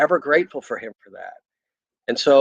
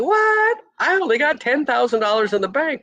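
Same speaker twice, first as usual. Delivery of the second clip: shocked disbelief; 11 semitones higher than usual. Retold or imitated. Shocked at owing tax bill.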